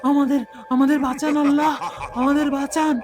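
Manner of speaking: put-on a boy pleading to God as the shadow chases; panicked fleeing. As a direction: beg for your life while running. Boys flee chased by shadow.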